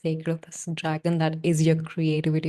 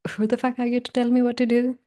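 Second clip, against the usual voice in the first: indignant outburst; 7 semitones higher, 4 dB louder, faster than usual. Real, not acted. Venting at unwanted advice.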